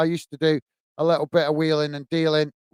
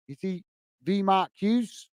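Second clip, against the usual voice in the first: softer, slow, questioning repeat with rising end; puzzled rereading; 6 dB quieter than usual. Real, not acted. Streamer rereads viewer's joke he isn't following, puzzled. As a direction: read it quietly to yourself, trying to work it out.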